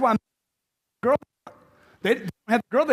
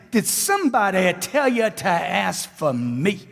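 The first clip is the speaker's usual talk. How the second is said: slow, listless and without enthusiasm; flat delivery; slower than usual. Shown as a demonstration. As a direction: say it as if you don't care. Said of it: "Where's your enthusiasm at?".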